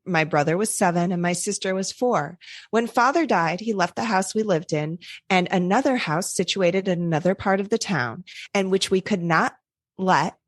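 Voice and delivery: put-on steady read-aloud of an old manuscript; story narration.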